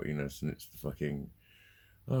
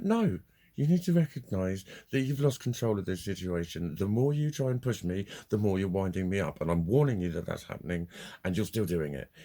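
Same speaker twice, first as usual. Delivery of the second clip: loud, emphatic warning, starting high; losing it, retold; 3 semitones higher, 4 dB louder than usual. Owner warning caller to end the call, retold angry firmness. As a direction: re-enact laying down the law. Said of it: "I basically lost my fucking shit".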